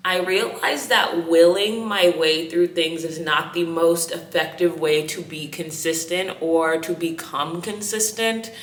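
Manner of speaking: slight lisp from whitening strips. Real, not acted. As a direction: talk with whitening strips on teeth. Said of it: "You hear this lisp? I got teeth whitening strips in".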